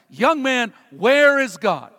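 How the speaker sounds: imitated booming rabbi, slow on the question; loud voice. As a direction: raise your voice like a demanding rabbi. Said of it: "in a really loud voice".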